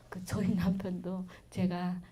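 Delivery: ordinary delivery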